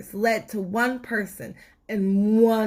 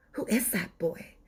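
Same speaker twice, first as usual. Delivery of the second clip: muttered; 6 dB quieter than usual. Acted. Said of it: "muttered Grandmother".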